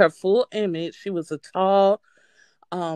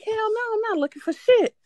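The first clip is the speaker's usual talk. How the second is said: scared refusal; 14 semitones higher, faster than usual. Retold or imitated. Refusing to search for ghost.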